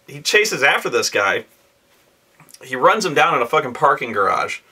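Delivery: ordinary talk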